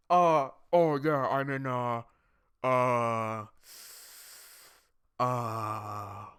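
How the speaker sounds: slow, halting imitation of a confused friend; dazed friend. Imitating his friend on bad mic, halting and lost. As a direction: play him lost and stalling. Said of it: "He goes".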